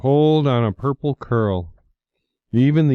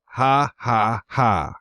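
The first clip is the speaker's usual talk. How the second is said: mocking laugh; slower than usual. A narrator's reading. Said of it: "he jeered".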